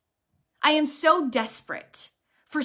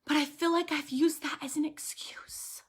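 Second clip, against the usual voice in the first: whispered prayer; 2 semitones higher, 6 dB quieter than usual. Retold or imitated. Retold prayer while weeping.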